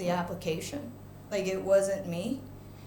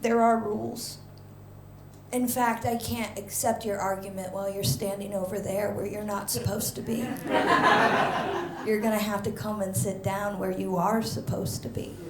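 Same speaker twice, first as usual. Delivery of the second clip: sweet; 3 semitones lower, 3 dB quieter than usual. Retold or imitated. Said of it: "smiles so sweetly and goes".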